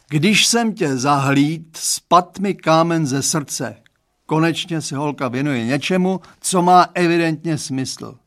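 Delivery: put-on dad tells the boy he's relieved. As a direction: tell him the weight is off your chest. Father relieved confiding.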